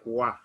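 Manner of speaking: "wa" as one open syllable; OI sounded as WA. Shown as a demonstration. Teacher explains the O and I rule, WA sound. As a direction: say "wa" for the French O-I. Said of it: "we pronounce it like".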